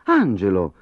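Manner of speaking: a stern teacher's warning. Acted. Teacher warning her pupil, sternly. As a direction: say his name as a warning. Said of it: "disse severamente".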